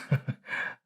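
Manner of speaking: short unvoiced chuckle through lips; soft held-back chuckle; breathy chuckle. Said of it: "Abe bit his lip and chuckled".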